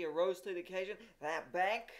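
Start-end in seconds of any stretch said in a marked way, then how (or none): 1.2-1.9 scornful. A narrator's reading. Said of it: "he asked scornfully".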